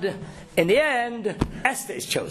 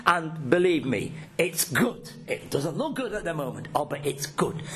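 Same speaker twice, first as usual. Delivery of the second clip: soft, low, comforting promise; quiet reassurance; 5 semitones lower, 4 dB quieter than usual. Real, not acted. Rabbi softly comforting listeners that God's plan is good. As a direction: hush down and reassure gently.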